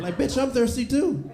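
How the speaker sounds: high, loud, sassy demand; demanding big girl. Acted. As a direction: squeal for the next shot.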